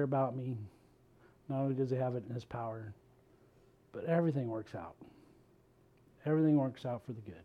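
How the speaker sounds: soft, settling self-reassurance; calm reassurance. Retold or imitated. Preacher voicing his own calming prayer, soft and assured. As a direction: talk yourself down, gently and quietly. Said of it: "for me to stop and go".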